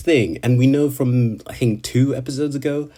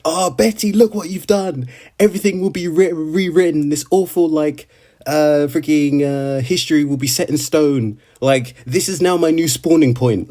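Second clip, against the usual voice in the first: higher-pitched, bitter lament; imitating an accusing Subaru; 5 semitones higher than usual. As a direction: blame her in a wounded, dramatic voice. Retold Subaru blaming Betty.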